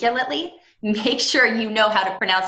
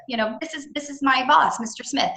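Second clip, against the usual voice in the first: much higher, courteous introducing voice; polite introduction; 8 semitones higher than usual. Shown as a demonstration. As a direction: offer the introduction up in a lifted voice. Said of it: "lean on the other person first".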